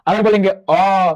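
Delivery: slow held ओ for pupils; drawn-out vowel ओ. Shown as a demonstration. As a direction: stretch ओ long. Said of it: "बस बोल के आप समझ जाएंगे".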